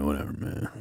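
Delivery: put-on low mumbled teen brush-off; sulky teen. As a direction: shrug it off like a bored teen. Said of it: "he's gonna be like".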